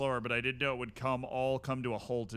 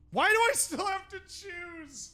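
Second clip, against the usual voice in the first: exasperated; 5 dB louder than usual. Real, not acted. Frustrated by a forced choice.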